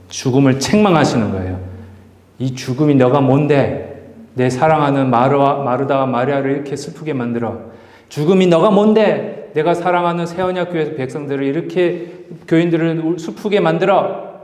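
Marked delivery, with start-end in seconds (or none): 2.4-14.3 indignant rebuke. Acted. Jesus scolding death for making his people weep, rising indignation. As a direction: scold death like a grieving friend would.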